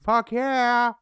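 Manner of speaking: loud, high, drawn-out mock yell; retold enthusiastic reply. Host imitating guest's reply to a podcast invitation, retold enthusiasm. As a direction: imitate someone wildly keen. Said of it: "And you went".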